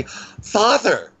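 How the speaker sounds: put-on high-pitched child calling out; high girlish call; little girl. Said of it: "heard the little girl say".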